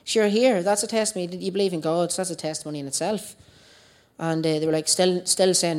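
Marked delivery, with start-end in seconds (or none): 0.0-3.4 put-on higher, heated outburst at the young guys; mock indignant telling-off; retold anger. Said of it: "So I, I lost the head".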